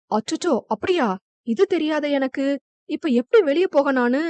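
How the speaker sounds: mild mock alarm; feigned fear. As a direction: pretend lightly to be scared. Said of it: "பயப்படுவது போல நடித்தான்". (லேசாக பயந்தது போல நடித்து)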